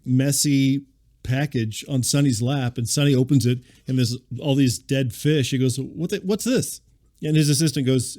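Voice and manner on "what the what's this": high, slow mock bafflement; baffled question. Sonny opens the package of dead fish, mock bafflement. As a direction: act out a puzzled, rising double take. Acting out Sonny's puzzled reaction.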